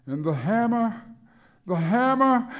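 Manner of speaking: from high and loud to very high and very loud; building shout. Acted. Hammer refrain building.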